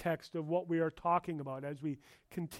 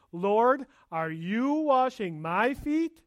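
incredulous; 4 semitones higher, 4 dB louder, slower than usual. Acted. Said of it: "to Peter, this is incredulous".

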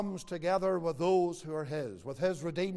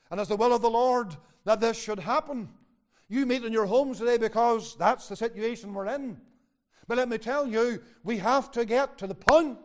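raised, emphatic sermon delivery; forceful preaching; 6 semitones higher, 8 dB louder than usual. Real, not acted. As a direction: drive it home to the congregation.

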